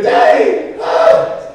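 loud mock cry, voice let go; sudden full-volume outburst; climactic yell. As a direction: bellow it in hammed-up abandon. Acts out climax cry in joke.

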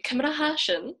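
"Cymra Hashin" lifted as a learned foreign phrase; Gaelic phrase. Shown as a demonstration. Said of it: "we say".

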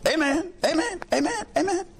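high, laughing amens rising each time; jubilant amens. Real, not acted. Preacher rejoicing with the church, high and laughing. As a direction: bubble over with joy.

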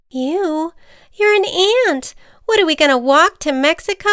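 can't believe the offer; incredulous butterfly. Acted. Butterfly scoffs at ant.

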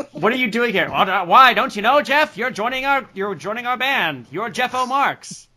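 high, hammed-up Marx brother greeting; cartoonish high Groucho-style ribbing. A Marx brother welcoming Jeff into the band, hammed up. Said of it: "it was Groucho and Zeppo Marx".

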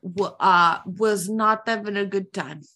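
halting mock Russian; attempted Russian accent. Shown as a demonstration. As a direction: grope through it in a Russian accent. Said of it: "in that Russian accent".

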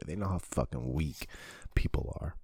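quiet confiding aside; hushed. Real, not acted. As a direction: let it sink to a whisper. Quietly confides harsh truth.

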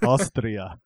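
Austria in a put-on Austrian accent; quoting the film scene, mimics her Austrian reply; mock Austrian accent. Light Austrian accent on Austria. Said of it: "She's like".

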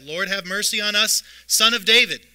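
high, loud plea for mercy; crying out. Acted. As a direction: shout it up to Jesus from the roadside. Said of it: "they cried out".

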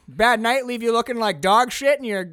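mock a hungover secretary loudly; hammed-up mocking greeting. Retelling the office scene, loud sarcastic cheer. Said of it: "she's like".

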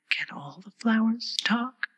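high, slow, timid whisper. A narrator's reading. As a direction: ask shyly under your breath. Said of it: "almost in a whisper".

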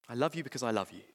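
tender repeat. Acted. God tenderly repeating his love to his children, softly. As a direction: say it again gently, like a father. Quoting God's words again, softer.

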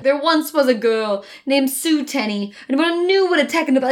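villain rant voice. Retold or imitated. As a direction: lean into the cheesy speech. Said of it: "she's talking like this".

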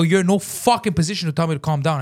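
indignant, emphatic retort; retold screaming. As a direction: put them in their place. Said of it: "Now I'm screaming".

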